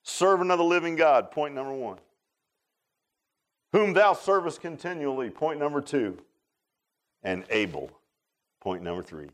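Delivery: each point set off by a long pause; preacher's pointed, paused outline reading. Shown as a demonstration. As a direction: announce each point, then let it hang. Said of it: "Listen to this outline right here".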